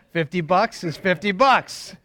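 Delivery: the punchline, drawn out slowly; a touch of deadpan delivery for the laugh; slowed punchline. Retold or imitated. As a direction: land the joke slowly and deliberately. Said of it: "But, you know".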